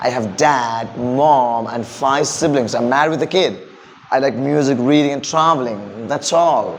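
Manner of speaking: measured self-introduction with pauses between phrases; slow, musical delivery. Shown as a demonstration. Teacher demonstrates intonation by introducing himself, slow and musical. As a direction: take it slowly, letting each phrase find its tune. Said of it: "ഇത് പതുക്കെ പറഞ്ഞു കഴിഞ്ഞാൽ music".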